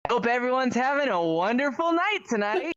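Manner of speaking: bright, polite service-desk voice; customer service voice. Shown as a demonstration. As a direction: greet them like a friendly call agent. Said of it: "back to my customer service voice".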